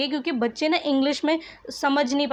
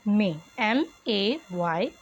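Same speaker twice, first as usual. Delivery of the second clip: spelling it out; 3 semitones lower, much slower than usual. Shown as a demonstration. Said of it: "क्या हो जाएगा आपका answer?".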